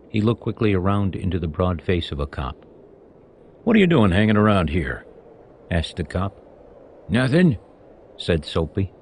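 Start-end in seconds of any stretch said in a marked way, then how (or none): 3.6-5.0 suspicious cop's questioning; stern cop. Acted. Cop to Soapy outside the church, stern. 7.1-7.6 higher, startled denial; defensive. Acted. Soapy answering the cop, defensive.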